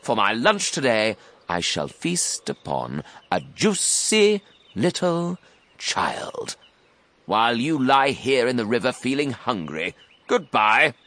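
high, gloating, drawn-out crocodile; enormous crocodile. A narrator's reading. Crocodile taking leave of his rival, gloating. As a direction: savour the feast and swagger off. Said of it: "the enormous crocodile answered".

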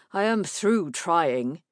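slow, final husband; slow firm refusal. Acted. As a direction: lay it down slowly.

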